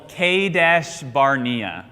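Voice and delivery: slow, measured "Kadesh Barnea" in American English sounds; American pronunciation. Shown as a demonstration. Teacher showing the class the town's name, American pronunciation. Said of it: "the American way to say it with our accent".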